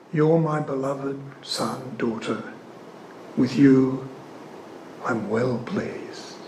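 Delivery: slow, hushed, loving; tender. Acted. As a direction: let the blessing fall gently and slowly. Quoting the Father to Christians.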